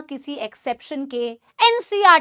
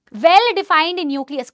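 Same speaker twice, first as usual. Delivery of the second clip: very slow and louder, each word stressed; slow emphatic dictation; 5 dB louder, much slower than usual. Shown as a demonstration. Teacher repeats the phrase for students, slow and louder. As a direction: press each word as they write. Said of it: "ma'am लिखना है क्या".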